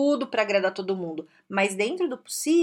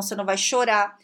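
normal talking voice

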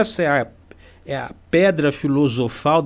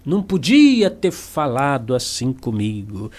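offended ego. Retold or imitated. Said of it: "aí você pensa".

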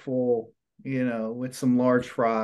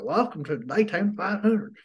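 announcer imitation; 6 semitones higher than usual. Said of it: "the Daytona five hundred was like".

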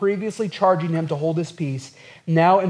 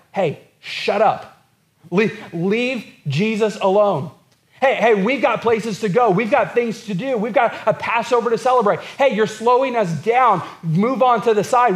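annoyed crowd. Retold or imitated. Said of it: "and they're like".

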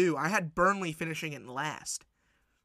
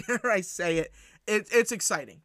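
laughing; 3 semitones higher, 5 dB louder than usual. Real, not acted. Laughs, repeats with excitement.

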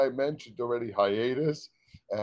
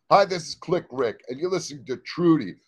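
radio announcer. Acted. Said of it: "another take of radio ID".

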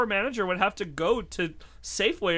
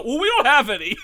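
laughing mock cashier; 5 semitones higher, 7 dB louder than usual. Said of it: "And they go".

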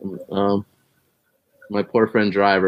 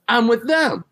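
pleading; 11 semitones higher than usual. Retold or imitated. Pleading with cop.

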